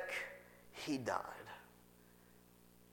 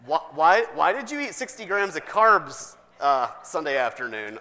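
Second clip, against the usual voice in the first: raised, louder scolding doctor; mock doctor scolding; 4 dB louder than usual. Doctor scolding patient over sugar, mock-stern. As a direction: scold the diabetic patient, half-joking.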